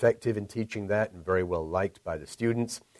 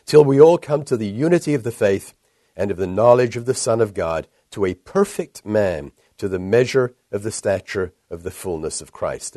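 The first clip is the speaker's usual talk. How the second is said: scripture reading; 6 dB louder than usual. Real, not acted. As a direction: proclaim the verse to a congregation. Reads scripture aloud to congregation.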